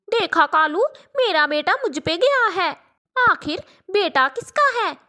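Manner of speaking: a mother bragging about her sly son; lightly voiced smug mother; proud crow mother.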